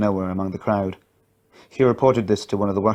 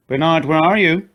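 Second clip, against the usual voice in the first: higher, louder call into the dark; 7 semitones higher, 4 dB louder than usual. A narrator's reading. Katie shouts for Bernard in the tunnel, louder anxious call. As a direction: shout for a lost friend. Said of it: "I shouted again".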